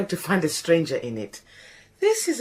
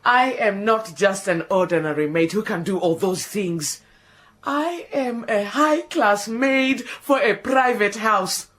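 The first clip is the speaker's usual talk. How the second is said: melodramatic despair. Acted. Despairing lament.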